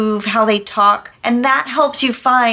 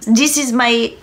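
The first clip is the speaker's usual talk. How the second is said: badly faked French accent; terrible French accent. Shown as a demonstration. Actor joking about accents, terrible French accent. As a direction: do a hammy, unconvincing French impersonation. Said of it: "my terrible impersonation of a French accent".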